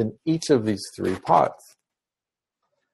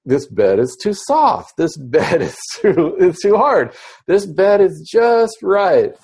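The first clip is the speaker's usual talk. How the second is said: lightly voiced Goldilocks; 6 semitones higher than usual. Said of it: "it's sort of like a Goldilocks story".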